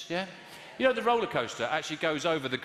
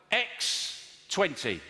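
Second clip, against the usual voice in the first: slow read; much slower than usual. Acted. Slow deliberate reading.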